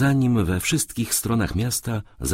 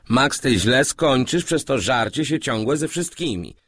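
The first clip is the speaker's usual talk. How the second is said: reluctant, stern mutter; 8 semitones higher than usual. A narrator's reading. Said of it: "mruknął niechętnie i surowo".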